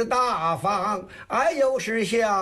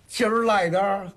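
Tangshan dialect; 3 semitones higher, faster than usual. Shown as a demonstration. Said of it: "啊，唐山的".

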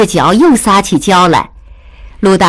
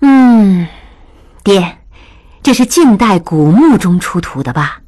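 daughter voice; 3 semitones higher than usual. A narrator's reading. Daughter answering father.

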